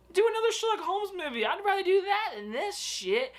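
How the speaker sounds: high, fast pleading. Real, not acted. Pleading with the actor.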